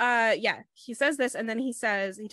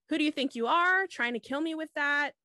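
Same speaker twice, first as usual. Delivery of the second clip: raised, louder imitation of outrage; retold angry challenge; 6 semitones higher, 5 dB louder than usual. Podcaster voicing the man confronting his attacker, mock anger. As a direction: demand it indignantly, as a retelling.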